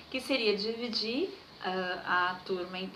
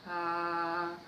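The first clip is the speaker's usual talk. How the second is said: steady mid-range "ah"; middle tone; 4 semitones lower than usual. Shown as a demonstration. Teacher demonstrates a medium sound for children, held middle note. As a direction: sustain an "ah" in the middle register. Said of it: "fazer um som médio".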